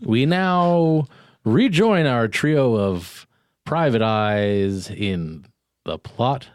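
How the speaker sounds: slow dramatic introduction with swooping pitch; serial announcer. Acted. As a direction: draw out each name theatrically.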